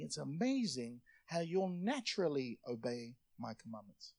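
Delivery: soft, loving appeal; tender reading as Jesus. Acted. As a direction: invite them gently, as someone who loves them. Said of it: "read it the way that Jesus actually meant it".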